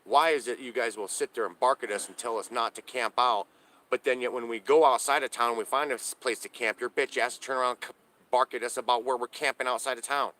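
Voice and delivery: replaying how he snapped back at the cops; pissy retort to cops. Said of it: "I get pissy with these damn cops".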